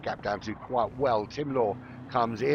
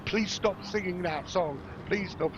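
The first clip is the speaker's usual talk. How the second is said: higher-pitched pleading mum; imitating exasperated mum; 7 semitones higher than usual. Mum begging her singing child to stop, imitated exasperation. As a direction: plead slowly, as a worn-down mother. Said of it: "His mum was going".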